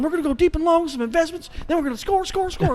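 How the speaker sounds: high, hammed-up Southern coach; Southern football coach. Audition as a Southern football coach, high Southern twang. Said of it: "It was me going".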